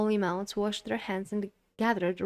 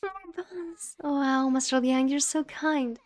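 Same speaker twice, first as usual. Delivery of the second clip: put-on higher, excited little girl; 6 semitones higher than usual. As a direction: squeal it like a thrilled child. Little girls delighted by buns.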